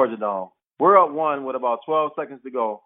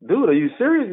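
higher-pitched incredulous question; retold disbelief; 6 semitones higher than usual. Player to rival who won't chat, incredulous. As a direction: ask it as if you can't believe it.

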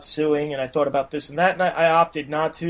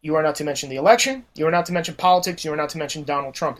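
rapid-fire list of orders, imitating a boss; in-your-face warning; 5 semitones lower, 5 dB quieter, faster than usual. Manager lays down rules to an employee, retold as a stern warning. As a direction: rattle off the boss's ultimatum, fast and controlled. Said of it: "got right in my face".

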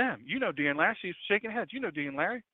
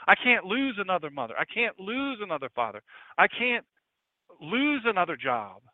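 higher, mounting plea; desperate lament; 5 semitones higher, 3 dB louder than usual. Acted. A hurting believer listing feared losses, desperate and rising. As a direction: let the acted desperation build. Despair building in acted lament.

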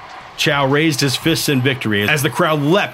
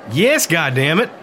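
snapping; 4 semitones higher than usual. Acted. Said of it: "Meade snapped".

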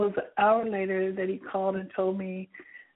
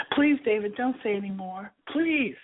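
pleading. Retold or imitated. Narrator begging her boss David to stop his tirade, pleading. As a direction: beg him to stop before he says any more. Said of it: "I pleaded".

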